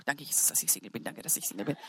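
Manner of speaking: soft, breathy whispered prayer; relieved whispered thanks. Retold or imitated. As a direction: whisper your gratitude. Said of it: "ich bin abends heimgegangen".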